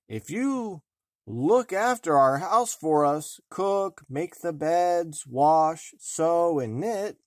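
a small dwarf laying out the terms, lightly voiced; dwarf bargaining; kindly dwarf voice. A narrator's reading. Dwarf voiced in fairy tale.

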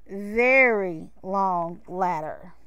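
"very" stretched long and slow; drawn-out emphasis. A narrator's reading. Narrator showing how long the ladder is, "very" stretched out. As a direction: lean hard and slowly on "very".

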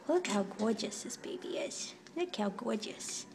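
hushed, breathy admiring whisper; soft cooing whisper over a kitten. Real, not acted. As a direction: whisper so the kitten stays calm. Admiring kitten softly in cage.

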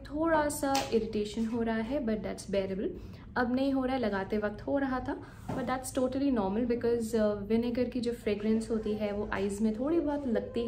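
stiff lips under drying clay; talking through facial mask; speaking with face mask on. Real, not acted. Seen 1: Clay mask covers face, around mouth, throughout labelled words; references bare-faced.

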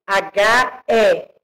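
slow, spaced letters "H E L C"; teacher spelling out "H E L C" slowly. Shown as a demonstration. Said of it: "Hélice".

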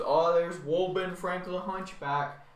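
slow, drawn-out mock announcement; mocking crowd. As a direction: imitate people teasing with a nickname. Others mock him with nickname.

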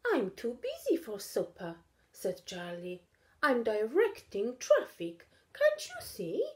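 a hint of an impatient kid; busy little cat. Charlie's busy character voice.

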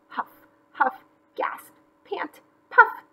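high, broken-up panting words; puffing. Acted. McGreely running with the kite, puffing. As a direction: act out each breath separately.

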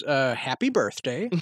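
halting, slow politician's answer; hesitant, drawn-out robotic politician; Pete Buttigieg. Acted. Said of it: "they ask Pete what his favorite song is".

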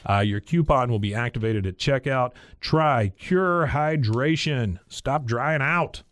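punchy sponsor read with emphatic slogans. Real, not acted. Host reading a sponsor's discount offer to listeners, ad read. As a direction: sell it with deliberate emphasis.

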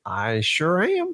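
put-on slow, drawn-out try at an old Brooklyn guy; attempted old Brooklyn accent. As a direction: play an elderly Brooklyn seller, slowly. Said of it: "what kind of accent is that?".

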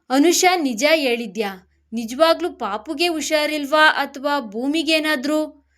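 mildly alarmed, rising questions; anxious doubt. Acted. Shaken man fears for his wife. (ಸ್ವಲ್ಪ ಆತಂಕ, ಅನುಮಾನದ ಧ್ವನಿ)

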